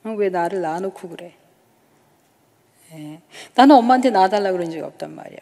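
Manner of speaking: talking back at a scolding mother; mild mock yell of a girl answering back; retold shout. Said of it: "저는 또 막".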